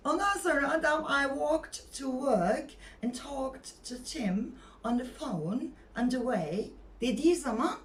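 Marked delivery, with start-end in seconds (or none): 1.0-6.7 silent l in "walked" and "talked", slowly swung; coquettish native English. Acted. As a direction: play the English speaker, drawing out "work" without its r. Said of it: "birazcık cilveli olacaksın".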